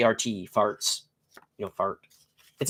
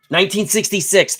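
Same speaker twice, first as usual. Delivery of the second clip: excited; 7 semitones higher, 6 dB louder than usual. Real, not acted. Remembering excitedly.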